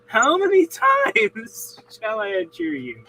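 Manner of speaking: high, laughing, exasperated king. Retold or imitated. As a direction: laugh through the king's complaint.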